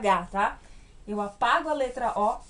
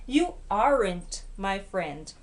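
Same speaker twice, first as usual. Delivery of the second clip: slow model sentence; 4 semitones lower, much slower than usual. Shown as a demonstration. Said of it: "model sentence slowly".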